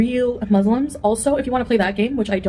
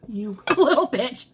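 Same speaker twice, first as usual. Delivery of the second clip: laughing; 3 semitones higher, slower than usual. Real, not acted. Laughing at slipping food.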